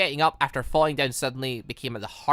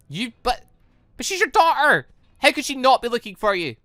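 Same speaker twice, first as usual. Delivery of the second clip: incredulous; 8 semitones higher, 5 dB louder than usual. Real, not acted. Stunned protest at Raven's answer.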